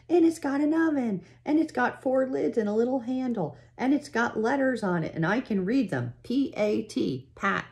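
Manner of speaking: put-on high, breathless little-girl voice; excited child. Laura showing Ma the new stove, high excited gushing. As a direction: gush about every part of it.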